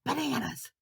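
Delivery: high, loud playful guess; excited guess. Pretend. Storyteller guessing aloud for children, excited. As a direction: call it out like a bright idea.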